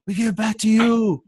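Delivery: lightly voiced pitchman; a hint of a pitchman; sales pitch voice. Shown as a demonstration. Acted upline pitch.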